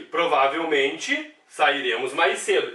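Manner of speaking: reads the example sentence slowly and deliberately; slow example reading. Shown as a demonstration. Teacher reading an example sentence aloud to students, slow and deliberate. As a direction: lay out each word for the class. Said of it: "Também adjunta adverbial".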